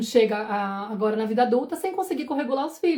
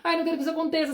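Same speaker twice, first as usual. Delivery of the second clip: worried inner voice; 5 semitones higher than usual. Retold or imitated. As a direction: fret like a mother dreading what comes. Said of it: "se eu fico preocupada". (voz preocupada, mais aguda e baixa)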